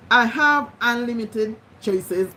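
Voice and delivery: slowly repeated affirmation; slow dictation. Shown as a demonstration. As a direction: dictate it again, word by word. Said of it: "repeat it every day".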